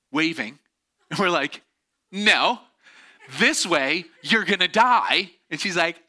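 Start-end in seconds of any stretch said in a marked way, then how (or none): 2.1-5.3 loud, raised mock yell; emphatic, high, drawn-out warning call; urgent warning. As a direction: shout a desperate warning across the water. Rafters yelling warning to swimmer.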